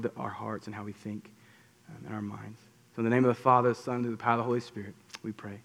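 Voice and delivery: soft, hushed closing prayer. Acted. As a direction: pray quietly and earnestly to God.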